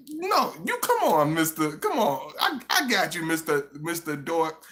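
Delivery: mock Gemini woman. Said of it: "And, like".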